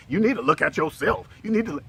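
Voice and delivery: high, loud nagging scold; nagging woman. Retold or imitated. Man imitating a nagging girlfriend, high and loud. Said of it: "not the kind that says".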